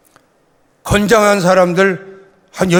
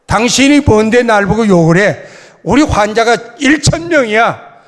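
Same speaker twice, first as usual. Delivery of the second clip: louder, indignant retort; retold shout; 3 semitones higher, 3 dB louder than usual. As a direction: reenact yelling back at the accuser. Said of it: "그러고 소리를 질렀어요".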